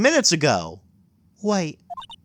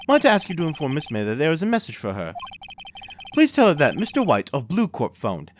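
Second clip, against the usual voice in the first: concierge bellboy voice. Acted. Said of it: "what's a good bellboy voice".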